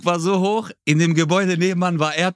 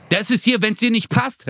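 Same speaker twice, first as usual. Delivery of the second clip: higher-pitched mock outburst; acted indignation, pitched up; retold angry clerk; 6 semitones higher than usual. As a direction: imitate the clerk laying down the law. Retold clerk throwing him out.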